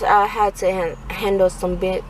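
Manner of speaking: stumbling, stressed stutter. Real, not acted. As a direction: trip over the words. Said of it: "I'm stuttering too".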